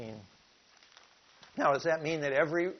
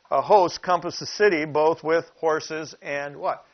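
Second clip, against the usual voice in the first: much louder, urgent retelling; dramatic emphasis; 3 semitones higher, 8 dB louder than usual. Acted. Preacher repeating the host verse to wake his listeners, loud and urgent. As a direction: hit it like a shock at dawn.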